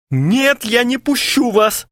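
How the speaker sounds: high frantic shout. A narrator's reading. Kharchenko shouts at friends from the door, high. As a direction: yell it, blocking the door. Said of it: "закричал Харченко".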